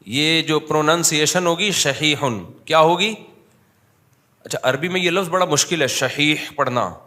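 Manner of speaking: ordinary talk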